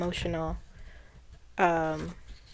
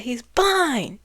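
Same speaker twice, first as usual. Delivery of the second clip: a slightly raised, imitated shout; a touch of a startled yell; mild mock yell; 4 semitones higher, 4 dB louder than usual. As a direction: echo her outburst, only half loud. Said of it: "like that".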